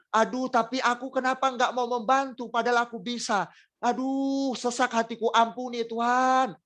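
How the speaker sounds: a sorrowful confession, voice lifting with distress; lamenting prayer. Retold or imitated. Worshipper confessing regret to God, lamenting plea.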